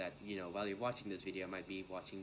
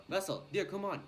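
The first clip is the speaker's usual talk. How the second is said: higher, louder bossy mom voice; nagging mom impression; 8 semitones higher, 5 dB louder than usual. Mom ordering Russell to do his Kumon, mock nag. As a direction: nag him like a mom who won't let up.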